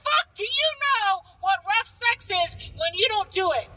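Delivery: arguing with a friend who calls the slapper a real man, heated. Real, not acted. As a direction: fire it back at your friend. Heated argument about rough sex.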